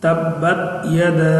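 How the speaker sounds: তাব্বাত ইয়াদা with ইয়াদা stretched three alif long; drawn vowel. Shown as a demonstration. Teacher demonstrating the long vowel in ইয়াদা. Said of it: "এই জন্য এখানে তিন আলিফ টান".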